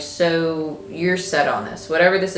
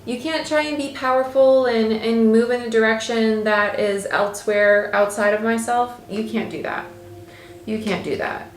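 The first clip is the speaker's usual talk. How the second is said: higher-pitched, affronted queen voice; indignant queen; 6 semitones higher than usual. Acted. Queen telling the king he can't do that, indignant. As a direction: play an offended queen, pitched up and disbelieving. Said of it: "you have this queen who's literally".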